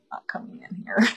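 a hushed, breathy whisper of a determined vow. Retold or imitated. Telling the demons at the door, whispering. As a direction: whisper it like a secret promise to keep demons out.

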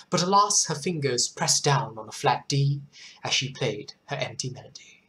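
measured, expressive poem recital; poem reading. Acted. Host reads a viewer's poem to her audience, measured poem reading. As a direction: read it like a solemn poem.

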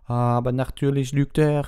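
loud, high exclamation; Madame Maxine. A narrator's reading. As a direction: call out the accusation. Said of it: "rief Madame Maxine". (laut und hoch gerufen)

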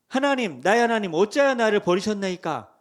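loud, anguished cry to God. Acted. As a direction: cry out as if forsaken. Preacher voices Jesus crying out.

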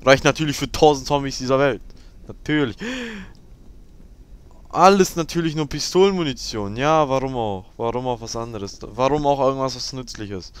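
loud mocking complaint; mock the useless ammo loudly; loud sarcasm. Real, not acted. Gamer complaining about ammo, loud sarcasm.

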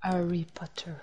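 hushed secret whisper. Pretend. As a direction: breathe it out like a secret. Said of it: "Il faut tout le temps chuchoter quand on dit Harry Potter". (chuchoté, en secret)

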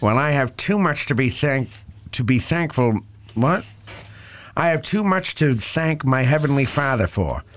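hammed-up Rhode Island accent; old-time radio New England accent. Co-host reading a soldier's letter on request, mock New England accent. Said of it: "You're doing Peter Griffin as, like, a nineteen thirties radio personality".

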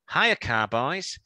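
slow, sing-song mock "Hiya, car buys" with a rise; stretching "Hiya" like a chirpy caller; drawn-out listener greeting. Reading a listener's email in a slow mock caller voice. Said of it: "I don't know whether she sounds like that".

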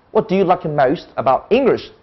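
"What do you like most about English" with ENGLISH emphasised and falling; sentence stress. Shown as a demonstration. Teacher repeats question for students, stressing ENGLISH. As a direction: flow through the question, landing on English. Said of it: "它有强调某个音".

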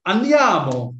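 high, loud rallying call; acted urging. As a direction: call out like you're hurrying friends along. Demonstrating Italian for let's go.

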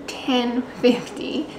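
slow, sleepy morning voice; just woken up, groggy and slow. Real, not acted. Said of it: "I have morning voice".

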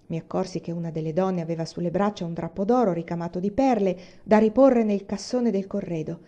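ordinary delivery

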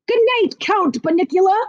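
mock Transylvanian count, sarcastic; a hint of a Transylvanian accent, mocking the rabbit. A narrator's reading. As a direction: say it like a sneering Transylvanian vampire. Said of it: "sarcastically in what ... a Transylvanian accent".

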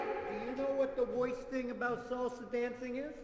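Mister Tomato voice. Acted. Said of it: "snaps for Mister Tomato".

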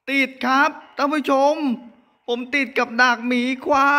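panicked. Real, not acted. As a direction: blurt it out in a panic. Stuck in bear trap, panicking. (ตื่นตระหนกเสียงสูง)

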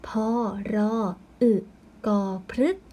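"พอ รอ อึ กอ" one by one, then blended "พฤกษ์"; spelling aloud. Shown as a demonstration. Teacher spelling for pupils, piece-by-piece chant. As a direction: sound out each letter with pauses, ending on "พฤกษ์". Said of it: "เราจึงเขียนคำอ่านได้ว่า".

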